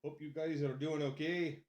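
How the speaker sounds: put-on Scottish accent; light Scottish lilt. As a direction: chat in a casual Scottish accent. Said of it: "speak in a Scottish accent".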